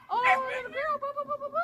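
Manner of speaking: high, loud, bouncy calls to the dog. Real, not acted. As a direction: get the puppy excited with silly sounds. Playfully exciting the dog.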